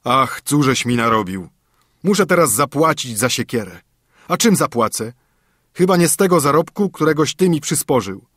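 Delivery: a hint of a worried, cross old father; father scolding his son over the axe.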